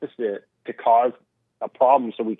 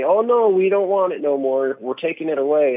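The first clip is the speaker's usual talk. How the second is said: high, loud mock politician voice; 5 semitones higher, 4 dB louder than usual. S0 mocking politicians banning flavored tobacco, raised loud voice. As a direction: ham up a fake-concerned official.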